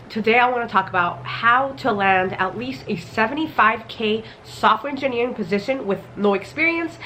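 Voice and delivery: stuffy, blocked-nose voice from a cold; muffled from a cold. Real, not acted. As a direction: talk through a head cold, a bit muffled. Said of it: "If I sound a little bit muffled".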